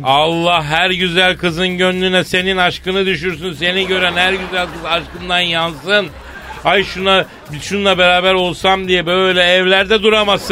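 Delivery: high, sustained mock-beggar blessing; hammed-up pleading beggar singsong; beggar's patter. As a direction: chant blessings like a beggar working a mark. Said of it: "sen bu dilenci ağzını nereden öğreniyorsun".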